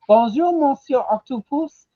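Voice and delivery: mock French accent. Voicing a customer in movie pitch.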